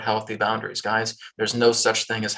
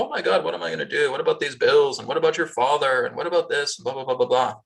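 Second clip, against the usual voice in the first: fast, higher worried rush of questions; frantic mom; 4 semitones higher than usual. Retold or imitated. Worried mother pacing frets about bills and father.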